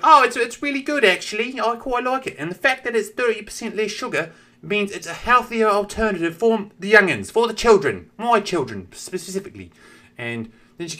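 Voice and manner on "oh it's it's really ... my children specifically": high piping voice for a prim British mum; a mum praising the candy in a squeaky kid voice; mother in kid voice. Retold or imitated. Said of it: "she has the same voice as the kid".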